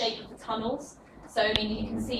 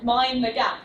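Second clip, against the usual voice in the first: crisp, loud London station announcement; tube announcement; 5 dB louder than usual. Retold or imitated. Teacher imitates the London tube announcement for students. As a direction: call it like the tube's recorded voice. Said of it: "in London they say".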